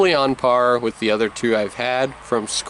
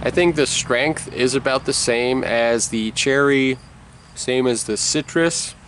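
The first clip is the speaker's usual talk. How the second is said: talking around a lip of dip; speaking with dip tucked in the lip; chewing tobacco. Real, not acted. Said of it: "I did take a little bit of a bigger caterpillar here".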